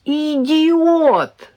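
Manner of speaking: high, sharp exasperated burst; exasperated cry. A narrator's reading. Mother scolding son who crushed the eggs, exasperated cry. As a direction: blurt it in sheer frustration. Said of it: "в сердцах воскликнула я".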